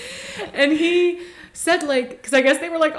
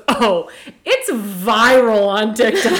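put-on slow, laughing boyfriend quote; laughing imitation; 3 semitones lower, slower than usual. Quoting boyfriend about TikTok, slow and laughing. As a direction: drag it out while laughing. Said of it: "And he goes".

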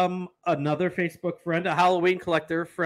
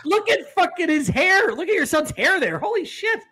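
can barely get it out for laughing; amused disbelief at the hair; 9 semitones higher than usual. Real, not acted. Laughing at son's photo.

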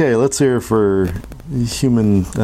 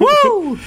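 loon call. Shown as a demonstration. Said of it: "I, I peaked it".

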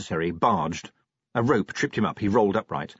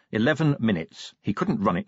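ordinary delivery

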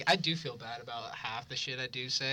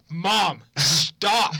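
exasperated plea; 2 semitones higher, 7 dB louder than usual. Retold or imitated. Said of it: "we're like".

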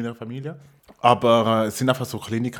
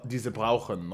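slow mock broken German; halting, slightly lower imitation of broken German; imitated broken German; 3 semitones lower, 4 dB quieter, slower than usual. Shop worker copying a customer's German, mock broken German. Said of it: "du redest so den gebrochenen Deutsch".

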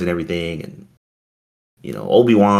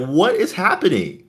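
retold shock; 10 semitones higher than usual. Retold shock at Jedi deaths.

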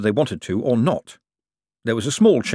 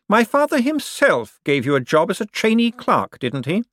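smooth, pressing Cosmo; 12 semitones higher, 4 dB louder than usual. Acted. Cosmo airs the directors' displeasure to Bent, smooth and pressing.

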